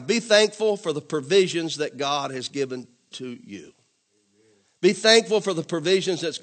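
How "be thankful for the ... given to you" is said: slow and deliberate, word by word; slow dictation. Shown as a demonstration. Pastor dictating a point to the congregation, slowly. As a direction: spell it out for note-takers. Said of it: "write this down".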